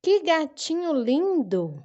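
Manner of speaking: admiring exclamation. Shown as a demonstration. Teacher demonstrating exclamation marks, admiring emphasis. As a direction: exclaim it stretched out, full of admiration. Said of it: "eu fiz uma admiração".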